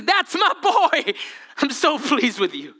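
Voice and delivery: high, slow, bursting with pride; proud shout. Acted. The Father proudly calling out over his baptized son, shouting. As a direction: call out like a father who can't hold it in. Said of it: "He says".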